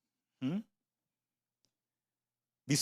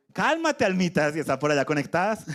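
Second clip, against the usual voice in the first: playful call to souls. Shown as a demonstration. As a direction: sing it out teasingly to the little souls. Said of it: "digamos todos a la vez". (llamado juguetón y agudo a las almitas)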